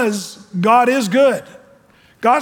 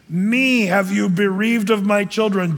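lament; 3 semitones higher, slower than usual. Acted. Preacher voicing grieving Jacob.

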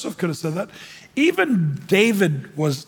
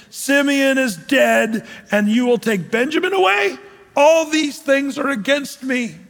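lament; 3 semitones higher, slower than usual. Acted. Preacher voicing grieving Jacob.

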